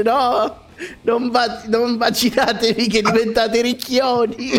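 high mock Neapolitan ayatollah; imitating a Neapolitan preacher; Neapolitan accent. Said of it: "me lo immagino con l'accento napoletano".

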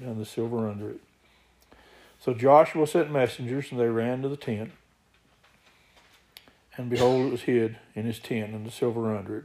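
steady, emphatic Bible reading; scripture reading. Acted. Preacher reads Joshua's story to the congregation, scripture reading. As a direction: read the verses out firmly to the congregation.

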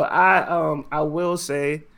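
ordinary delivery

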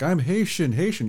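put-on high Haitian-accented insistence. Host imitating coworker's Haitian accent, high.

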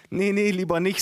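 high-pitched cousin objecting; storyteller's high cousin voice. A narrator's reading. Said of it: "sagte meine Cousine".

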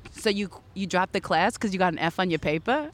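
retold old New York accent; New York dialect, lightly put on; thick New York accent. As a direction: drop the R's like a New York teen. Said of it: "You can't speak like this".

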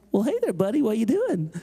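put-on lilting talk to a small child; gentle coaxing. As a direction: greet a hidden toddler in a light sing-song. Staffer greets the hiding toddler.

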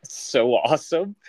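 slow, breathy, amazed whisper; awed whisper. Real, not acted. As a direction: whisper it in awe. Reacting to the Don Johnson cards.

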